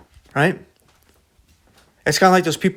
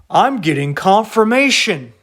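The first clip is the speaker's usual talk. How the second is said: mock believer; 4 semitones higher, 4 dB louder than usual. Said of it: "they don't understand what they said".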